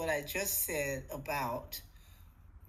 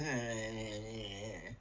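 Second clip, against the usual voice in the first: low mock groan; 9 semitones lower, 7 dB quieter than usual. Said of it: "If it was".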